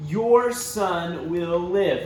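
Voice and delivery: slow, steady promise; trusting repetition. Acted. Tired father repeating the promise, slow and hopeful. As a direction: say it to keep yourself going.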